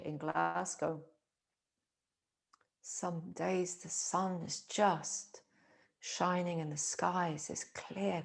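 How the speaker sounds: unhurried, measured phrases with long pauses; reflective meditation. Acted. Teacher musing on spring in Glasgow, calm meditative delivery. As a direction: muse gently, letting each image settle.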